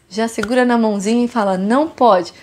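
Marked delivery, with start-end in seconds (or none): 1.6-2.3 put-on firm, steady no to a small child. Shown as a demonstration. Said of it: "Fala com firmeza". (com firmeza, sem gritar)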